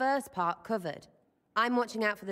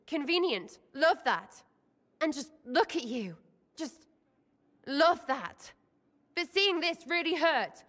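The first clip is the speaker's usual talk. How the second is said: high, tumbling confession; heartfelt rush of feeling; emotional; 5 semitones higher than usual. Real, not acted.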